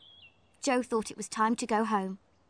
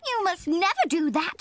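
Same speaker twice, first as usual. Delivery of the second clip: high, firm little elf; huffy little helper elf; 8 semitones higher, 4 dB louder than usual. Acted. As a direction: scold the children like a small elf. Brownies warn the children.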